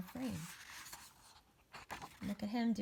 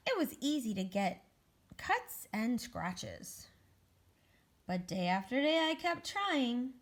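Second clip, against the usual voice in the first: expressive storybook reading, drawn-out key words; picture-book narration; 4 dB louder, slower than usual. Acted. Egg recounts making planes to children, slow storybook narration. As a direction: linger on the effort as you read to children.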